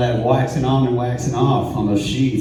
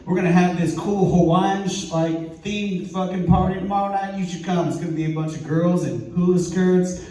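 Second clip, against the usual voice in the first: lightly voiced host, pitched up; club madam inviting; 6 semitones higher than usual. Club madam inviting the neighbor to a party, lightly imitated, higher. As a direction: coax him along in a higher retold voice. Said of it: "He was like".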